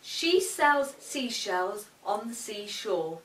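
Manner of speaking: slow, careful tongue twister; deliberate diction drill. Shown as a demonstration. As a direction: spell out each sound slowly. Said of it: "let's try some fun tongue twisters".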